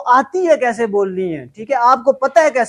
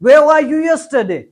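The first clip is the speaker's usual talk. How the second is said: Englishman's question, higher and slow, r dropped; English accent; 3 semitones higher, 3 dB louder, much slower than usual. Retold or imitated. Teacher voicing the Englishman again, slow accent. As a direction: ask it like an Englishman. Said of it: "उसने कहा".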